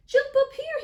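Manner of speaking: high, loud friendly call; hearty storybook shout. Acted. Fisherman calls cat aboard in story.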